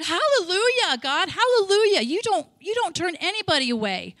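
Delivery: high, loud hallelujah; retold joyful hallelujah; joyful praise. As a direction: exclaim it like a praise break. Retelling her exclaimed praise.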